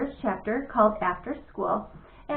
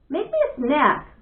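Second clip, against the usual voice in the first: demanding; 4 semitones higher, 5 dB louder than usual. Acted. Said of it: "Bat demanded".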